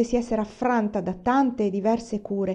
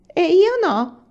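higher, louder wounded question; upset daughter protesting; 1 hurt cry; 10 semitones higher, 8 dB louder, much slower than usual. Acted. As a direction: cry out indignantly.

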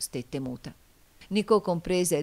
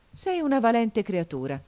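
high, louder, impressed; admiring exclamation; 6 semitones higher, 4 dB louder than usual. A narrator's reading. Nicò impressed by Fillide's vow, admiring. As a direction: praise her with grudging admiration. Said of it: "con una specie d'ammirazione".

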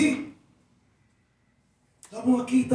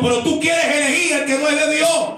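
fiery preaching; 2 semitones higher, 3 dB louder than usual. Acted. Pastor warns the congregation to repent, building shout. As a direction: warn them, rising to a shout.

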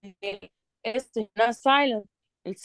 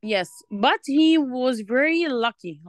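slow reading aloud; much slower than usual. Shown as a demonstration. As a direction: read it out slowly for the learner. Reading the script aloud slowly. (قراءة بطيئة للطالبة)

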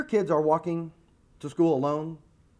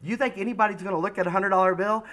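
daughter yelling; 3 semitones higher, 4 dB louder than usual. Retold or imitated. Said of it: "She yells down".

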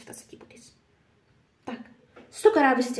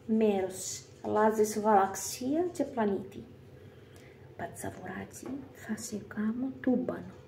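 menacing mother-in-law. Acted. Ex mother-in-law threatens on phone.

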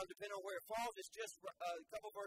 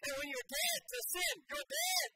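rising shout; 11 semitones higher, 6 dB louder than usual. Real, not acted. Preacher shouting emphasis.

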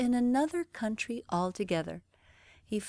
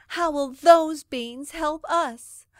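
slow, loud, higher scolding mother; exasperated scolding; 8 semitones higher, 10 dB louder, slower than usual. Acted. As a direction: drag each word out in exasperation. Angry mother scolds Jack.

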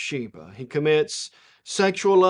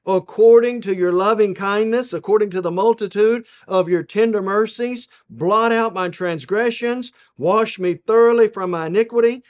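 raised, louder scripture plea; preached prayer, pitched up and forceful; David; 4 semitones higher, 5 dB louder than usual. Acted. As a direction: recite a psalm pleading for mercy. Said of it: "David says".

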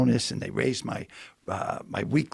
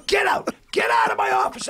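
shouting him out, much higher and louder; angry shout; 5 dB louder than usual. Retold or imitated. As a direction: yell get out at full force. Director throws him out.

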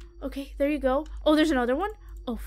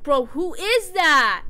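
alarmed cry; 2 semitones higher, 7 dB louder, slower than usual. Real, not acted. Spots someone following behind.

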